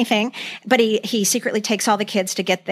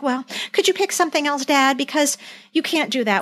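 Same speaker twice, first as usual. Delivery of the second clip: mock earnest Jan; 5 semitones higher than usual. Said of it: "she's like".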